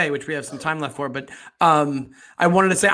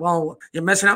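mumbled, stoic noir cop voice. Mocking an actor's stoic cop delivery, barely opening the mouth. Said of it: "I don't think he opens his mouth two millimeters".

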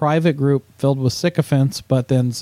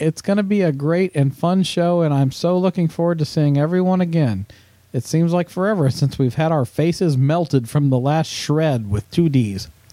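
usual speaking voice

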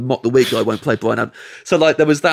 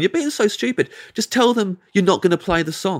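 high, mocking tone spoken through laughter; 8 semitones higher than usual. Retelling what a woman said to him at a wedding, imitating her laughing mockery. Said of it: "she starts laughing and going".

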